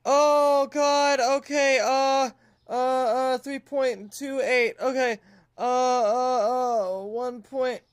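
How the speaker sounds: high, whiny fretting; flustered panic. Real, not acted. Shop owner scrambles to set prices, flustered panic. Hurriedly pricing items while panicking.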